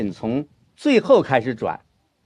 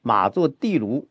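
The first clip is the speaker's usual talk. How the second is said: 地卢 weighted and drawn out; slow model with 地卢 stressed; slower than usual. Shown as a demonstration. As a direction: lean on 地卢. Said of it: "应该是放在地卢上".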